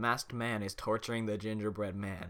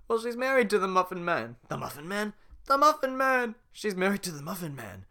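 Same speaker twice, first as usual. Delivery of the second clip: high and squeaky, excited; gingerbread man voice; 10 semitones higher, 7 dB louder than usual. Acted. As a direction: squeal the Muffin Man bits. Gingerbread man singing Muffin Man.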